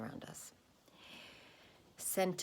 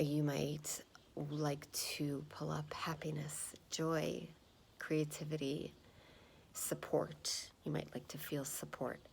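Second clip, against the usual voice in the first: calm grounding exercise. Acted. Meditation instruction.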